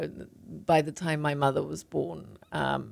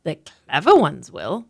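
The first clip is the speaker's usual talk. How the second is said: mother's voice; 5 dB louder, slower than usual. Acted. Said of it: "Mum said".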